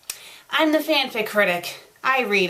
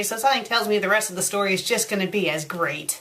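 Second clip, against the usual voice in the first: usual speaking voice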